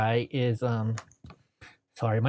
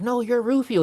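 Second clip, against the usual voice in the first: high, eager insistence on Rufio; star-struck; 9 semitones higher than usual. Retold or imitated. Eddie insisting Rufio is the star, excited. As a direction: toss the praise back, pitched up.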